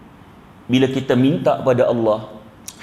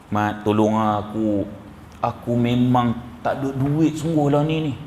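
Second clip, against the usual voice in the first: pleading to a friend; 4 semitones lower than usual. Pretend. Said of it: "Ni dengan muka sekali".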